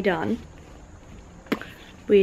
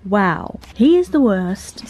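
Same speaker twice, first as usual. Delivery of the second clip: ordinary talk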